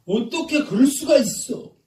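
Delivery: high, loud indignant cry; acted outrage. Voicing the feeling that starts fights, acted outrage. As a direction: exclaim it in hammed-up disbelief. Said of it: "어떤 마음이 생기냐면".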